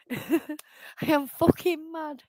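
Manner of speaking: slow, emphatic admission of anger; real anger, held in and drawn out; mad. Real, not acted. Streamer apologising for getting worked up, mad. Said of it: "I am mad".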